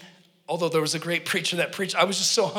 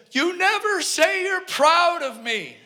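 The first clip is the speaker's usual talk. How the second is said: high breaking confession; 11 semitones higher, 4 dB louder, slower than usual. Retold or imitated. Son to his mom, a slow high strained plea.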